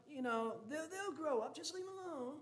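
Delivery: hammed-up high granny voice; mock grandma voice. Mimicking an indulgent grandma.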